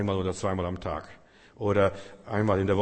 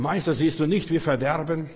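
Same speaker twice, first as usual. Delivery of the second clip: louder, higher frightened call; panicked cry; 4 semitones higher, 4 dB louder than usual. Acted. Disciples crying to sleeping Jesus in panic. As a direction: cry out over the storm.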